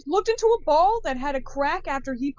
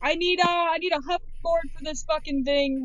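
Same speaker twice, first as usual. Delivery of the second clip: yelling across the room; 4 semitones higher than usual. Pretend. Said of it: "yell across the room to Charles".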